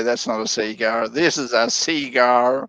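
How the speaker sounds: a hint of the Dundee line, dragging out the second half; understated movie-quote impression; Crocodile Dundee. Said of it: "as Crocodile Dundee would say".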